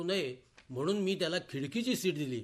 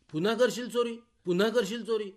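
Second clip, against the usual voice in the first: higher, louder, demanding repeat; mock police interrogation; 4 semitones higher, 5 dB louder than usual. Police questioning a thief, menacing shout. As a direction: bark it like a cop beating a thief. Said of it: "या त्यांच्या प्रश्नावर".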